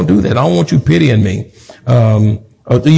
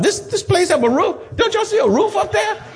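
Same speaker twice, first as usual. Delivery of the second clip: much higher, playful scolding shout; 5 dB quieter than usual. Real, not acted. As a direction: call it out to the whole congregation. Preacher scolds absent members.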